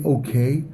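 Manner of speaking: "Okay" with a doubtful rising tune like a question. Shown as a demonstration. Listener answering something they disapprove of, "Okay" rising sarcastically. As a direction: lift the end of "Okay" as if unconvinced. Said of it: "but with a question mark behind it".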